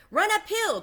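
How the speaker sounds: very high, loud bleating cry; sheep crying out. A narrator's reading. Sheep shouting advice to Wilbur, high loud cry. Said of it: "cried the sheep".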